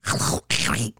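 raspy squawking cartoon duck; Donald Duck voice. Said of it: "I can do Donald Duck's voice".

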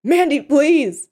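high, loud, drawn-out begging; desperate plea. Acted. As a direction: beg her, stretching the words. Captive begs his kidnapper.

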